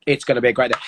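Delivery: a hint of an applauding crowd; cheering crowd. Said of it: "everyone going".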